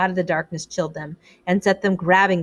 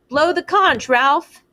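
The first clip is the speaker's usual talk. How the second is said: loud high urging; urgent shout; 7 semitones higher, 5 dB louder, slower than usual. A narrator's reading. Piggy urging Ralph to blow the conch, loud. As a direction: push him to act now.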